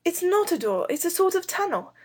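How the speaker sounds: put-on high-pitched boy calling out a discovery; excited cry. A narrator's reading. Robert calls to the girls from inside the hole, excited high cry. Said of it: "Robert cried to the girls".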